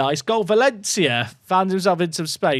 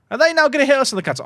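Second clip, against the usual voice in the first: alarmed; 11 semitones higher, much faster than usual. Real, not acted. Panicked counterattack worry.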